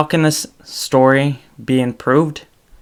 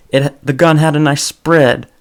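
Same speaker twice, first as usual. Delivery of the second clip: imitating a gun store owner's southern accent, higher and louder; 3 semitones higher, 6 dB louder than usual. Comedian's gun owner in a southern accent. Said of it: "he used a southern accent".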